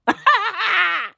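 a high amused laugh. Real, not acted. Laughs at own rant.

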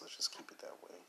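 a playful conspiratorial whisper, no voice at all. Acted. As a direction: breathe it like a secret to the listeners. Joking about keeping podcast clean.

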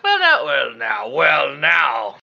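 sputtering, offended; flustered huff. Acted. Shopkeeper insulted at being called a leprechaun, sputtering. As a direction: stammer it out in indignation. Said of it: "She goes".

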